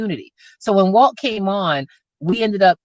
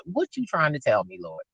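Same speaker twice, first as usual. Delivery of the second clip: hushed prayer to God; prayerful; 8 semitones lower, 9 dB quieter than usual. Retold or imitated. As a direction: ask God softly. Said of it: "I said ... talking to God".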